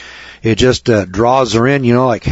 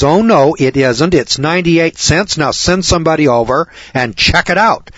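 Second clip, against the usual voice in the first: firm, raised objection; insistent; 4 semitones higher than usual. Retold or imitated. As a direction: stand your ground, voice up. Wife disputes price with cashier.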